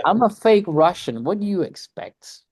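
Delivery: high, loud joking protest; playful exclaim. Real, not acted. Joking about his accent.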